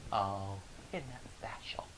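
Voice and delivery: slow, whispered mock sympathy; sneering whisper. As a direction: breathe it out, dripping with fake pity. Coworker sneering.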